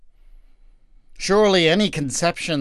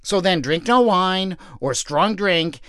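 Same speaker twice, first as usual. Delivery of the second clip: wife, firm; 3 semitones higher than usual. Acted. Wife telling the message.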